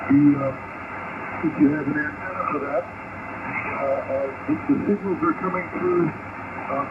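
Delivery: distant voice through a ham radio; fading shortwave radio. Real, not acted. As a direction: sound like you're on shortwave. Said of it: "a lot of Q S B on you".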